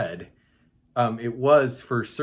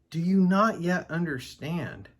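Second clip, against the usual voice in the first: higher, mildly exasperated question; incredulous reproach; 6 semitones higher than usual. Acted. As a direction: ask it in disbelief at their slowness. Reads Jesus reproaching the disciples.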